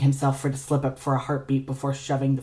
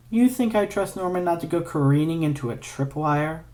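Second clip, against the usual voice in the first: dryly; 4 semitones higher than usual. Acted. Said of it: "Ignatius said dryly".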